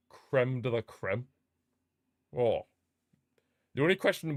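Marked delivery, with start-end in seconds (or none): 0.1-1.3 savoring, slow. Real, not acted.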